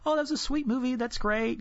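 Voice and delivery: mock teary gushing, high pitched; light, high sniffly movie-watcher act; sentimental boo-hoo. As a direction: pretend to be touched by a sweet film. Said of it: "the boo-hoo type of cry".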